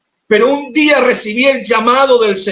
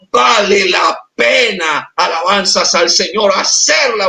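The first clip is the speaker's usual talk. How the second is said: with vehemence. Real, not acted. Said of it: "hoy puedo decir aquí con vehemencia".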